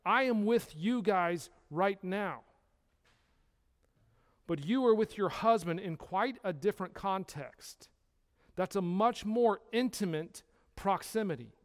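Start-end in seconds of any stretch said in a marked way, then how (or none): none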